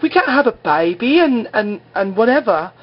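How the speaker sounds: very high put-on girlfriend voice; mock protest. Pregnant girlfriend answers her boyfriend, high mock protest.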